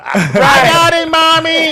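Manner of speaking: put-on high kid voice calling mommy; childish high voice. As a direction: whine it like a child to mom. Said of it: "It's like".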